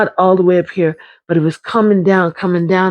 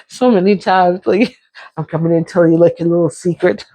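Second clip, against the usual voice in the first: laughing; faster than usual. Real, not acted. Laughing while telling.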